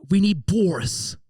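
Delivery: put-on high, slow posh British accent; British accent, drawn out. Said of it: "I can't do the British accent".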